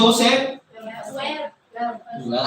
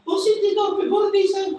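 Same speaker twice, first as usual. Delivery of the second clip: raised, pointed exclamation; emphatic call-out; 8 semitones higher than usual. Real, not acted. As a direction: hit both words high. Preacher stresses the lesson.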